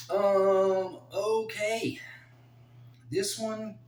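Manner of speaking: high, loud, bright lift into the next pick; excited squeal. Real, not acted. Vlogger squealing excitedly as he turns to the Gaethje fight. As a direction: announce the next fight with sudden glee.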